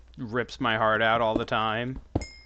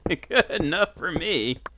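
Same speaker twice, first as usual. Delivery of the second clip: laughing; 4 semitones higher than usual. Real, not acted. Laughing at his own survival.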